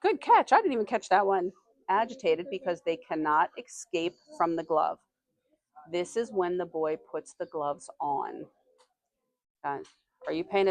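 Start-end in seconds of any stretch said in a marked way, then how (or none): 1.9-8.5 slow, deliberate read to the class; slow reading aloud. Acted. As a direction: read each word out slowly for young listeners. Teacher reads passage to class.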